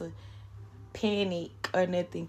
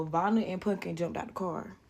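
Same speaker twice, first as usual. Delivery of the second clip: ordinary delivery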